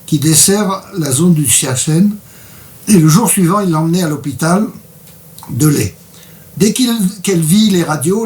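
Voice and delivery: measured book-reading voice; story reading. A narrator's reading. Author's guest reads an expedition passage aloud, story reading. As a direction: read the account aloud to listeners.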